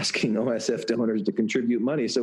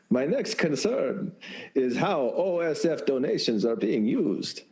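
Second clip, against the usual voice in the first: Count voice. Acted. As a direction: read it like the Sesame Street Count. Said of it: "it sounds more like Count from Sesame Street".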